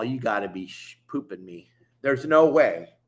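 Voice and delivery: half-swallowed curse, muttered low in disbelief; mock-stunned retelling. Stunned by the mattress news.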